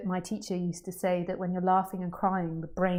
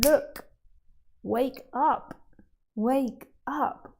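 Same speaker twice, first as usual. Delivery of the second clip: raised high and loud, wake up; urgent call; 6 semitones higher, 5 dB louder, much slower than usual. Real, not acted. Teacher calls out to the room, urgent and loud. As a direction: shake them awake with your voice.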